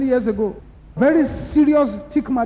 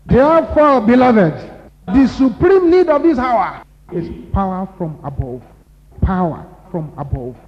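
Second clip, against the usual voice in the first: loud preaching, therefore beloved rings out; loud altar call; climax call; 5 dB louder than usual. Acted. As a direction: raise the voice to the congregation.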